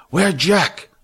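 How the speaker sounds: high, loud broken-English demand; Fat demanding. A narrator's reading. Fat asking Billy about Jack, high demanding voice. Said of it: "Fat demanded".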